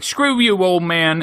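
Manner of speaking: high, loud scoffing retort; shouted cartoon sass; mock defiance. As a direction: hurl it at the old barkeep. Couple defying the barkeep.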